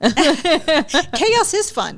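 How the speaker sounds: slow, laughing emphasis; laughing, drawn out. Real, not acted. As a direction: stretch it out through a laugh.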